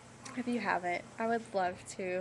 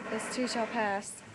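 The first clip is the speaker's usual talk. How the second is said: "This too shall pass." said slowly, weight on "too"; slow down and lean into "too" in "This too shall pass."; slow and deliberate; slower than usual. Shown as a demonstration. Reminding herself of her tattoo motto: slow, deliberate. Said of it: "exactly those words".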